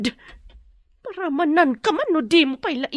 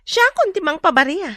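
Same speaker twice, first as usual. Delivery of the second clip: mocking laugh; 7 semitones higher than usual. Kidnapper mocks captive.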